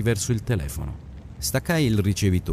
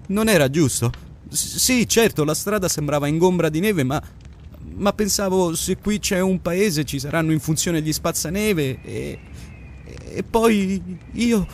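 raising his voice; 7 semitones higher than usual. Acted. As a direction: voice climbing as the worry takes over. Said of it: "Ora alzava la voce".

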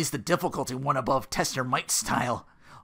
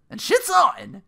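hype shout; 10 dB louder, slower than usual. Real, not acted. Recap of the fight.

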